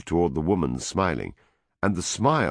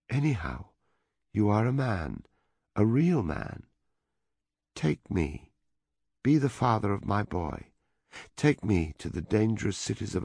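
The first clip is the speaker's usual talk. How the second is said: with conviction; 5 semitones higher than usual. A narrator's reading. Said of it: "said with conviction".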